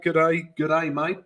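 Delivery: light mock Australian accent; hint of a put-on Australian twang; Aussie accent. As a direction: have a playful go at an Aussie greeting. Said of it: "Aussie accent there".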